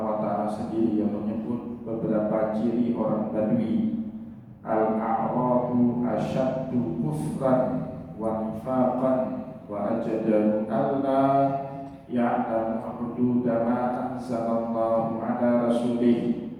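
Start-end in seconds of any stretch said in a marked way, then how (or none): 4.7-16.5 slow, measured Arabic recitation; Quran recitation. Acted. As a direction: recite the verse slowly and deliberately.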